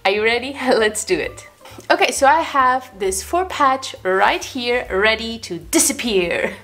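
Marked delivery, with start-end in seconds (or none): 1.9-6.5 slow, showy magician announcement; theatrical magician. Acted. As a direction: present it like a stage magician's trick. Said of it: "I always like to use my magician voice".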